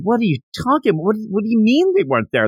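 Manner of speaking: high, fast shriek of disbelief; mock screaming. Bulma screaming at Goku that the balls are gone, high mock shriek. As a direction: screech it up high in mock panic. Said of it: "she starts screaming".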